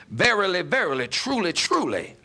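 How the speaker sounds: each "Verily" and "truly" pressed down with a falling close; solemn emphasis. Acted. Preacher stressing Jesus' words to his listeners, solemn emphasis. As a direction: lean into "Verily, verily, truly, truly" with weight. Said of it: "he's putting emphasis on it here".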